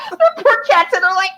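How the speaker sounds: pitched high, breaking with laughter; high laughing pity. Real, not acted. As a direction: pity the cats through your laughter.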